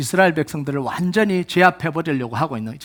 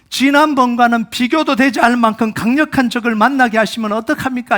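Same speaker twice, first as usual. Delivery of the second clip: protesting to God; 4 semitones higher, 4 dB louder than usual. Acted. Voicing Israelites protesting to God.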